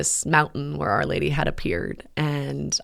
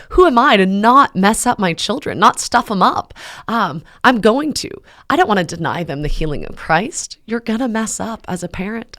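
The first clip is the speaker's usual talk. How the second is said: much higher and louder, forceful and insistent; emphatic advice; 5 semitones higher, 5 dB louder than usual. Retold or imitated. A friend firmly telling Matt all parents fail, loud and emphatic. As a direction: hammer home the point like a fired-up friend.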